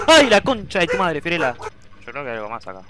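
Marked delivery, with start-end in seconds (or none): 0.1-1.6 frustrated curse. Real, not acted. Cursing at the game.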